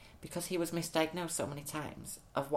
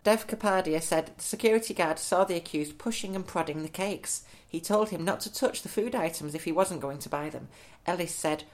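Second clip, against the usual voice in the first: newsreader voice; 5 dB louder than usual. Acted. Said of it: "in your best newsreader voice".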